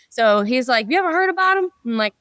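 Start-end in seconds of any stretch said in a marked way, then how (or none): 0.9-1.7 put-on high New York-accented question. Mechanic asking about the tool makers, high New York accent. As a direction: ask it like a Brooklyn mechanic. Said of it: "your New York accent was pretty good".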